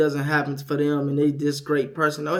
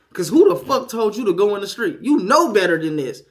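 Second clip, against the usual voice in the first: louder, indignant telling-off; retold scolding; 2 semitones higher, 5 dB louder than usual. Parent retelling child in the street, scolding.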